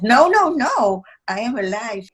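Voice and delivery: mock high, loud protest on the no's; a retold urgent denial, no's pitched high. Insisting to boys she's alive.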